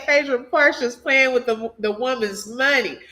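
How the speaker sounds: Quad impression. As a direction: read it aloud with a touch of someone else's sass. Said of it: "I read it in Quad's voice".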